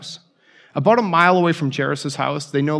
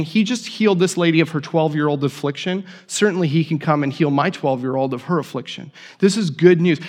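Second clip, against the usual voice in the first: excited. Retold or imitated. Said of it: "He must be really excited".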